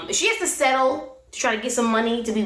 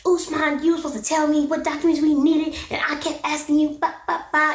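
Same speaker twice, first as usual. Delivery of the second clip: mock livid rant, pitched up; higher-pitched retold scolding trailing into "ba, ba, ba"; 5 semitones higher than usual. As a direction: mildly imitate an irate wife's nagging. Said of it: "Lisa's livid".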